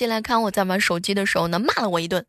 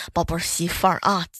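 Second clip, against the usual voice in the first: touched husband; 4 semitones lower than usual. Retold or imitated. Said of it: "我哥特别感动啊".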